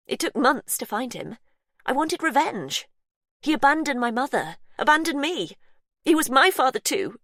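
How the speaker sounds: high, building bitter outburst; Faith's voice, rising bitterness. Acted. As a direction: spit out the grudge. Faith's grievance.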